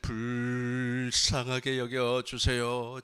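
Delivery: loud, slow, drawn-out plea; loud beseeching cry; crying out for mercy. Acted. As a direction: call out urgently, stretching the words. Acting out blind man's cry for mercy.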